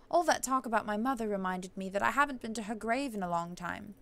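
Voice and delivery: put-on posh accent, toned down a little; softened posh accent. Heroine plans to sneak out to her mother's grave, softened posh accent. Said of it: "I'm trying to soften it".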